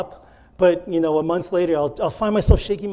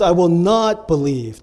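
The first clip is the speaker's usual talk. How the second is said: "not" stands out, stressed as a refusal; 4 dB louder than usual. Shown as a demonstration. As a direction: punch the word "not" firmly. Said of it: "The emphasis here is on the no".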